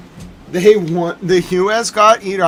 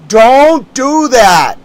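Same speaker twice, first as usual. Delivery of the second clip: angry scolding; 5 semitones higher, 7 dB louder, slower than usual. Real, not acted. Scolding the president loudly.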